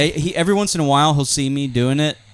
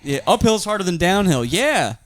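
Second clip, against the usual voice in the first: winded, puffing out the dad line; gasping, out of breath after sprints; 5 semitones higher than usual. Pretend. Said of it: "I'm out of breath".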